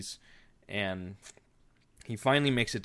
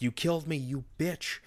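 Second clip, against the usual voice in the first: higher, pitched-up mock snarl; hammed-up retold threat; menacing Jack; 7 semitones higher than usual. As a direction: voice a crazed killer, lightly. Jack attacks Wendy.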